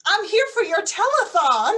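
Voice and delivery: spy in disguise insisting she is a famous singer; posing as a famous singer. Pretend. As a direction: sell the fake pop-star persona.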